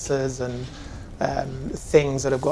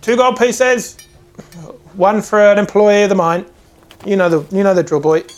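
louder, higher dwarf haggling; gruff dwarf voice; 5 semitones higher, 8 dB louder than usual. Acted. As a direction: lean in and name the price.

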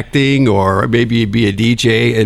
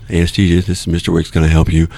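lightly lowered on-call phone voice; telephone voice; 4 semitones lower, faster than usual. Shown as a demonstration. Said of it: "this is my on-call telephone voice".

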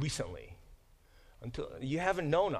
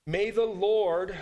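"May the Lord" said slowly, louder and higher; slow solemn blessing; 7 semitones higher, 8 dB louder, slower than usual. Shown as a demonstration. Teacher reading the blessing slowly and louder, as a solemn pronouncement. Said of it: "I'm doing blank there".

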